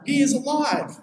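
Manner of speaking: high-pitched retold proclamation; calling out. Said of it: "calls out".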